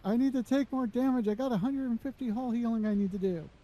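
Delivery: talking through hiccups; words broken by hiccups. Real, not acted. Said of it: "'Cause I got the hiccups".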